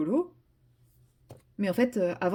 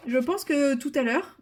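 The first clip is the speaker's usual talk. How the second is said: usual speaking voice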